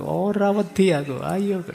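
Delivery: loud, high defiant yell; frightened student yelling at the rattling door, loud and high; retold loud shout. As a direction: shout it hard to drown out fear. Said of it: "sambil teriak keras-keras itu".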